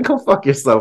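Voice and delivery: light, laughing through the words. Recounting telling someone off in a disagreement, said smiling and laughing. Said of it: "I'm saying it like this, smiling and laughing".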